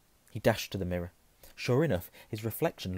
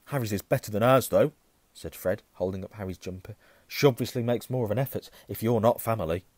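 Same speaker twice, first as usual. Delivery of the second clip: teasing; 7 dB louder than usual. Acted. Fred teases loudly.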